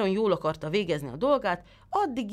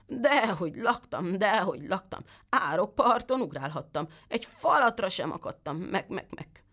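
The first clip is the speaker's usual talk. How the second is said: lightly voiced sly goat, higher, ending in a bleat; whining goat; 3 semitones higher than usual. The goat lies to the tailor in a whining goat voice. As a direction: whine it and trail into a bleat.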